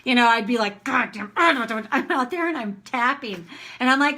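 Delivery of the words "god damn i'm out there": ranting outburst. Retold or imitated. Caught ranting by neighbors.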